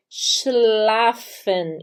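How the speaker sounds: schlafen begun with a sh sound; SCH as X. Shown as a demonstration. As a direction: draw out schlafen with clear sh then L. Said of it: "ele tem som de X". (schlafen com som de X no início)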